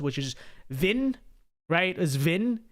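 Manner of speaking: Vin said with a nasal short i, rising at the end; Vin, Vietnamese-style, with a lift at the end; Vietnamese name. Shown as a demonstration. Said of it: "the Vietnamese version of Vince".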